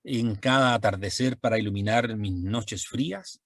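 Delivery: lightly poetic reading of a verse to the moon; reciting poetry. Shown as a demonstration. Teacher reciting an example verse, lightly poetic. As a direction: recite it like a tender love poem. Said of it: "estoy diciendo".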